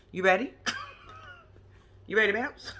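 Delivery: quoting Kevin through laughter; laughing while quoting Kevin; laughing quote. Retold or imitated. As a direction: giggle out the quote. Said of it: "did he literally say".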